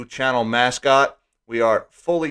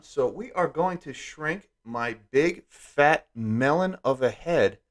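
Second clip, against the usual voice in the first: slowed voice effect; 4 dB quieter, slower than usual. Acted. Shrinking his head on screen.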